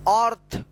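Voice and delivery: अर्थ as 'awrth', open vowel first; demonstrated pronunciation. Shown as a demonstration. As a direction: model अर्थ with an 'aw' sound. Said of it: "अर्थ उच्चारण करेंगे". (अर्थ का साफ़ उच्चारण)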